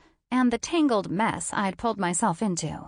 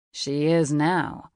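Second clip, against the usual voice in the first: confident man; 4 semitones lower, 3 dB louder, slower than usual. Acted. Logan speaks for her.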